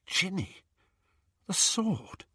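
high, urgent hush; breathless realisation. Acted. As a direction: blurt it out in awe. Harry blurts out.

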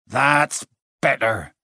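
heavy-breathed, slow satisfaction; breathing heavily. A narrator's reading. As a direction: still panting after the anger. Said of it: "breathing heavily".

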